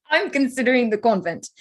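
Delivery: laughing through a wry quip; laughing joke. Acted. Lizzie joking to Jane about never marrying, laughing. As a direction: tease yourself with a laugh.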